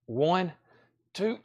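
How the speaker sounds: straining to lift a heavy crate; carrying heavy load. Real, not acted. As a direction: grunt through lifting something heavy. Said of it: "this is heavy 'cause I'm".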